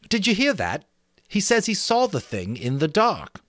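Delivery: a schoolboy showing off his island; Ralph, excited about the island; boy Ralph, eager. Acted. Ralph voiced.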